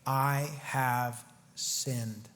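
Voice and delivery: slow, low, hushed admission of guilt; mournful confession. Acted. Saul confessing to David, slow and hushed. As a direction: let it sink out slowly, ashamed. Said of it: "we see Saul say".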